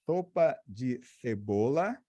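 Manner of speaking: "sopa de cebola" with a lisp, tongue between teeth; slushy sh for s. Shown as a demonstration. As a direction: say "sopa de cebola" lisping every s. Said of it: "com a língua presa".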